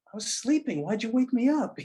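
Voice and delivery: very high, whiny protest; mock-indignant at being woken; acted-out grumpy complaint. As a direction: complain in a pushed-up, put-out voice. Acts woken husband complaining to wife.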